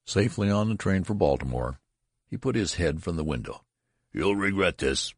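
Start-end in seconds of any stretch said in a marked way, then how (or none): 4.1-5.1 shouted threat. A narrator's reading. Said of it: "he shouted".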